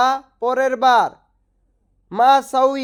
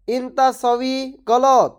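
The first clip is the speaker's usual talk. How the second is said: ইনতা সউই গলত slow, each word clear; slow repeat; slower than usual. Shown as a demonstration. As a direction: spell out ইনতা সউই গলত slowly for learners. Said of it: "এর আরবি হবে". (ধীরে ধীরে স্পষ্ট করে বলা)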